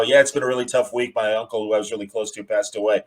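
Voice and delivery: low, trailing off softly; understated downcast confiding, sinking away at the end; retold sad news. Mark telling his editor of a loss, understated sadness.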